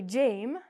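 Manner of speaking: "jame" with long A; wrong jam. Shown as a demonstration. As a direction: stretch "jame" like the name. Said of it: "We don't say jame".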